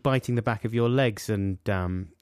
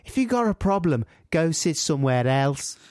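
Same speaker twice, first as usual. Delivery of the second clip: put-on unconvincing Liverpool accent, pitched up at first; 3 semitones higher than usual. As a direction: try a cheeky Liverpool retort. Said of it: "I'm gonna do a Liverpool accent".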